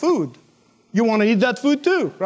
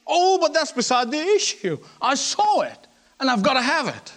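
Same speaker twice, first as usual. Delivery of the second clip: higher-pitched, lightly mocked shopper; shopaholic's insistence; 5 semitones higher than usual. Preacher mimics a shopper brushing off the need, insistent. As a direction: wave off the objection, then insist.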